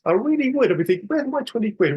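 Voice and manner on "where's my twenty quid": higher, mock-annoyed grumble over lost money. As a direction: moan it like you've been robbed of a tenner. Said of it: "I'd be annoyed about it".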